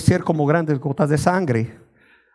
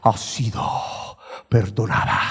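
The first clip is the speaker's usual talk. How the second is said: much lower, softer booming God voice; mock divine pronouncement, low; deep voice of God; 10 semitones lower, 6 dB quieter than usual. God pronouncing forgiveness in a vision, low and soft. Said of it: "Dios me dijo con una voz así".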